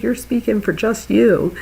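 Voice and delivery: mock scolding of a man; retold yelling. Woman correcting the husband, mild mock yell. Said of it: "she starts yelling at him".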